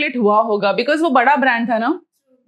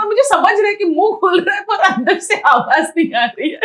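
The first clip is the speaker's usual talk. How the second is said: laughing while telling; 8 semitones higher, 3 dB louder than usual. Real, not acted. Laughing at her own panic.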